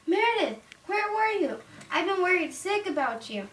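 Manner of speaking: high, pretend fretful scolding; make-believe motherly reproach; worried mother. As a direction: play a mom who was worried sick. Acted worried mother scolding in play.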